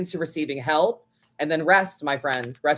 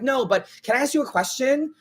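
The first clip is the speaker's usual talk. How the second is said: mock fan; 6 semitones higher than usual. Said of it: "she's like".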